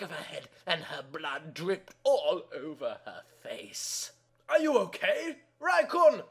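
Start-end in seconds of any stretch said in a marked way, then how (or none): 4.5-6.2 high, loud pleading shouts; frantic shouting. A narrator's reading. Boyfriend at her locked door, frantic shouting. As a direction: yell through the door in panic.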